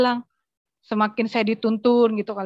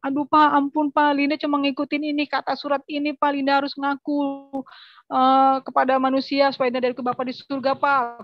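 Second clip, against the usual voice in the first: pleading for mercy; 3 semitones higher than usual. Retold or imitated. Daughter begs her beating father for mercy, raised pleading voice. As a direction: plead with the father to stop hitting. Begging father while being beaten.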